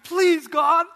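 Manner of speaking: high, loud, imploring cry; hammed-up beg to heaven; desperate pleading. Man humbles himself before everybody, begging loudly. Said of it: "humbles himself and says".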